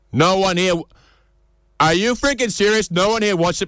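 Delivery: high, hammed-up disbelief; mock outrage that nobody watched it; incredulous. Comedian to silent audience, hammed-up high disbelief.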